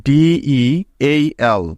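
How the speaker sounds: "ডিইএইএল" every letter spelled slowly and separately; "ডিইএইএল" each letter drawn out clearly; spelling letter by letter. Shown as a demonstration. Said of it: "প্রথম হোমওয়ার্কটি হলো". ("ডিইএইএল" প্রতিটি অক্ষর ধীরে আলাদা করে বানান)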